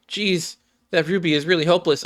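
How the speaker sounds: a light mocking jeer; scornful scoff. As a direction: toss off a dismissive sneer, fast. Spectator scoffing at Ruby.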